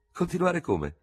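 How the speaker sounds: lieutenant stopping short, stunned; stunned question. A narrator's reading. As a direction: stop dead and ask in disbelief. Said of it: "fermandosi di botto sbalordito".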